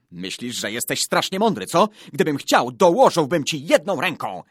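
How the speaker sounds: put-on loud, high-pitched childish bickering; heated boys' quarrel. A narrator's reading. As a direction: hurl taunts back and forth at full voice. Escalating boys' quarrel in story. (głośna, zaczepna kłótnia chłopców)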